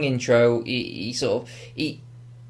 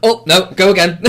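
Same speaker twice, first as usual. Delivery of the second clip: loud, higher-pitched mock outtake, laughing; laughing fluster; 5 semitones higher, 8 dB louder than usual. Joker of a botched pencil trick, laughing fluster. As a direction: call for a retake through laughter.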